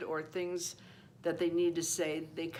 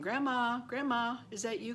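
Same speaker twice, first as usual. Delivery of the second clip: put-on higher-pitched voice of a child calling out; questioning child's call, pitched up; little girl calling; 5 semitones higher than usual. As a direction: lightly imitate a girl calling for her grandma. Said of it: "she said she was calling".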